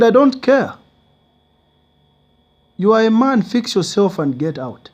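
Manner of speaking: high, loud harsh voice; angry shout. Retold or imitated. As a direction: throw him out loudly. Friend throws him out.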